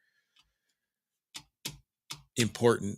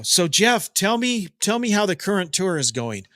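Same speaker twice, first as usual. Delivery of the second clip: Eddie Trunk voice; 5 semitones higher than usual. Retold or imitated. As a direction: play the keen radio host asking Jeff. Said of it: "I'm Eddie right now".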